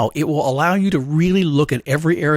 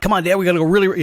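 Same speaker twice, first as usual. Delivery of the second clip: lightly voiced eager dog, a bit higher; raring dog; 4 semitones higher, faster than usual. Dog to handler leaving the tunnel, mildly acted eagerness. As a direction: hurry Dad along like a keen dog. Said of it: "raring at full speed".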